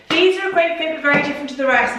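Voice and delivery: breathless after walking fast; out of breath. Real, not acted. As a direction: talk while still catching breath. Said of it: "I'm very out of breath".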